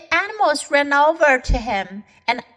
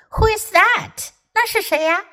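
curious question; 9 semitones higher than usual. Acted. Davy asks curiously.

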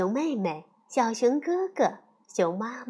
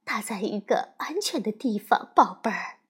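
comforting mother; 2 semitones lower than usual. Acted. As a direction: hush her gently like a soothing mom. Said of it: "熊妈妈安慰她说".

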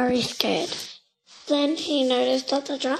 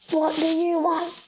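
bellowing; 4 semitones higher than usual. A narrator's reading. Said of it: "bellowed the giant postman".

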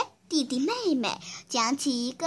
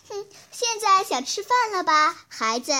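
calling through a door; 5 semitones higher than usual. Acted. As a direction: call out through a closed door. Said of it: "就隔着门喊道".

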